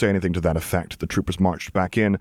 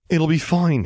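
a mock copy, higher and louder; mocking imitation; 9 semitones higher, 4 dB louder, slower than usual. Zev mimicking Luke, mocking and higher. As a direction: parrot his friend's words sarcastically. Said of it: "he says".

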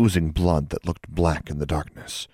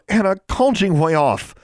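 high urgent yell, much louder; 14 semitones higher, 5 dB louder than usual. A narrator's reading. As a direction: shout it across the rain to stop the owl. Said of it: "Alexandra yelled".

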